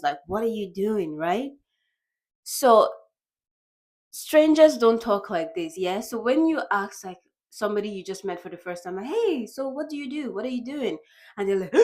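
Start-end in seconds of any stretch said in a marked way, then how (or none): 0.3-1.2 relaxed, offhand question; casual with friends. Acted. Friend casually asking a friend, easy and offhand. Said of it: "casually, like, with friends". 9.1-11.0 higher, softer chatty opener; friendly small talk. Acted. Asking somebody you just met, light friendly small talk.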